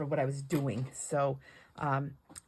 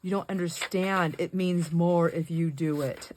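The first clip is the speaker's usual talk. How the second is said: pleading; 4 dB louder, slower than usual. Retold or imitated. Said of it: "I'm like".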